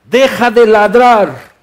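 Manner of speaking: lightly voiced commanding Jesus, slowed down; a hint of a stern master scolding a dog; slow stern rebuke. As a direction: order the storm to stop barking, firmly.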